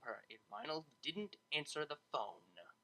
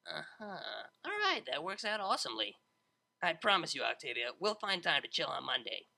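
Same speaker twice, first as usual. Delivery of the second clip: louder, sly, pleased with herself; brash DJ voice; 3 semitones higher, 3 dB louder than usual. Acted. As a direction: promise it with a grin. Vinyl voiced, scheming.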